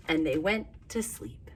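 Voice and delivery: soft unvoiced bedtime whisper; storyteller whispering the bedtime ending. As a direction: whisper it like they're asleep.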